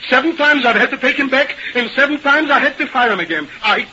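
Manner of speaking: acted exasperated outburst; exasperated refusal. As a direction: refuse indignantly, slowing on the last sentence. Boss refuses to recall Byrne.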